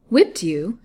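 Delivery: loud, rising question of disbelief; startled, disbelieving question; incredulous. A narrator's reading. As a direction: echo it back in astonishment. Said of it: "with an incredulous look".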